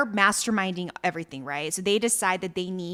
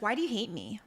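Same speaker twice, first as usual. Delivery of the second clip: small hurt voice; 9 dB quieter, faster than usual. Retold or imitated. Acted hurt question.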